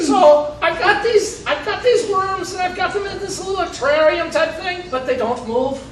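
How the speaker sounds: put-on Texan Irish accent. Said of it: "my Texan Irish accent".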